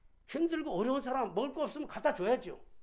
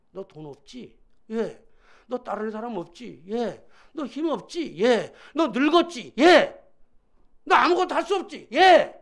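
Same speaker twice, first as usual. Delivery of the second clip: building call-and-answer; 12 dB louder, slower than usual. Acted. God quizzes Moses on what he lacks, escalating to shouts.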